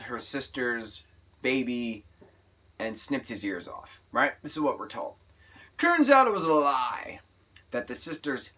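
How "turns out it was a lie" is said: loud, high burst on the twist; dramatic reveal. Real, not acted. To viewers, revealing the twist with a loud exclaim. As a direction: shout out the reveal.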